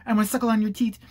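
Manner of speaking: mock an adoring young hanger-on; fawning kid. Kid gushing to his YouTube mentor, mock fawning. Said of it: "he's like".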